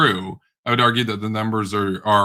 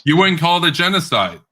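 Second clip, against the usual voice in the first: incredulous; 6 semitones higher, 3 dB louder than usual. Real, not acted. Incredulous repeat of opponent.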